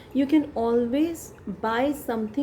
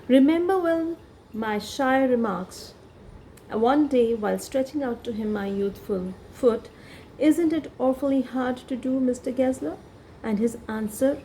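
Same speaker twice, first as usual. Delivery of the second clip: slow, careful reading aloud of the text; story reading; slower than usual. Shown as a demonstration. Teacher reading the story to students. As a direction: read the passage slowly to the class.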